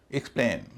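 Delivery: एक्सप्लेन ending in a long "playn"; एक्सप्लेन said "ik-SPLAYN". Shown as a demonstration. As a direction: stress the second syllable of एक्सप्लेन. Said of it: "इसका उच्चारण ए ही होगा".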